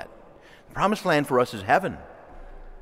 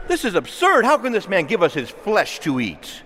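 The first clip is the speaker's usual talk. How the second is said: a higher, louder, scandalised protest; mock outraged objection; 4 semitones higher, 4 dB louder than usual. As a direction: sound shocked at the absurdity. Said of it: "When they object".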